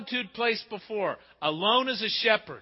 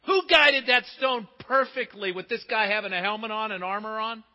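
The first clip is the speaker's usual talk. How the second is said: preaching shout; 3 semitones higher than usual. Real, not acted. Preacher shouting his point.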